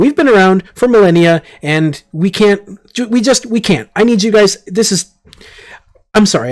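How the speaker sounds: slightly panicked. Urging the others to leave after the force field failed: panicking a little. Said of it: "I'm panicking just a little bit".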